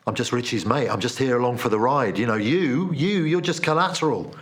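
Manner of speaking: casual mock-cheerful brush-off; offhand dismissal. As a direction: shrug it off like it's no big deal. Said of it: "Like I was saying".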